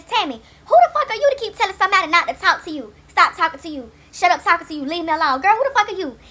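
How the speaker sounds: angry rant. Real, not acted. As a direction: tell her off hard. Ranting at Tammy on camera.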